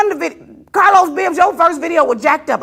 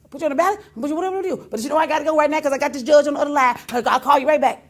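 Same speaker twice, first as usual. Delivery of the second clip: imitating Brett's fast talk; much faster than usual. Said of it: "You know how he, Brett talk fast".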